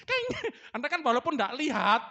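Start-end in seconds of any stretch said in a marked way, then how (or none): 0.1-0.3 high yelping kaing; dog yelp imitation. Shown as a demonstration. Preacher imitates a stepped-on dog yelping high. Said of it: "Anjing kepinjak itu".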